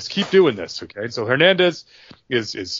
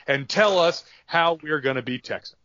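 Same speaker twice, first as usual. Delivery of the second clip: higher-pitched indignant Texan challenger; Gino Hernandez calling out JBL; 4 semitones higher than usual. Retold or imitated. Gino Hernandez tells JBL he's a fake Texan, higher and indignant. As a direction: puff up and tell off the Yankee punk. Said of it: "He goes".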